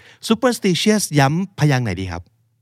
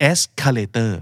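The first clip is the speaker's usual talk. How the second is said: "Escalator" with ES stressed, -tor light; unstressed final syllable; much slower than usual. Shown as a demonstration. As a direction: let the -tor in "Escalator" drop away unstressed. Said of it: "มันแทบจะไม่เคยถูกย้ำเลย".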